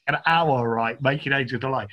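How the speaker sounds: ordinary delivery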